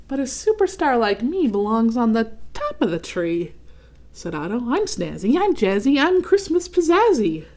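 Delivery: lightly voiced showy ornament; boastful Otto. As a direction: show off, building up.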